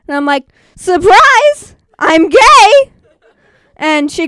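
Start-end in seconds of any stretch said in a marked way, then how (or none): 0.8-2.9 high, loud fake cheer; sarcastic surprise. Comic to the nosy friend, mock-cheerful loud announcement. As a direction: announce it like a party reveal.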